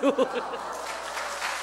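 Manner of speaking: airy delighted laugh; breathy laugh. Retold or imitated. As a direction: let out a soft gleeful laugh. Joyful laugh after the win.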